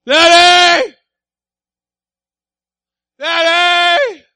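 put-on high, loud child's cry of Daddy; child calling out. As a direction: call out like a small kid in the dark.

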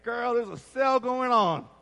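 high, chirpy friend luring you to a sale; lightly voiced girlfriend calling; tempting friend on the phone. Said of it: "people are gonna call you".

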